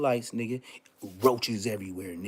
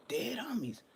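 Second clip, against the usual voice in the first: whispered oath; 13 semitones higher, 6 dB quieter than usual. Real, not acted. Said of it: "whispered oath".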